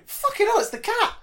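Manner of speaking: inner panic. Retold or imitated. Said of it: "my brain going".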